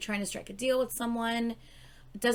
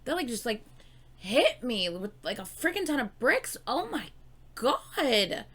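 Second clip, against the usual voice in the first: shook and excited; 5 semitones higher than usual. Real, not acted. Fan stunned by the song's opening, higher and excited. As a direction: blurt it out, still reeling from the song. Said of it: "really shook by that beginning".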